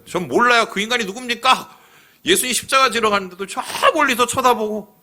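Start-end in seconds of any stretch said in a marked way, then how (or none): 0.1-1.8 higher, brusque denial; 딱 잡아떼듯 높게; Peter denying. Retold or imitated. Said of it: "닭이 세 번 울기 전에". (베드로가 예수를 모른다고 높은 목소리로 잡아뗌)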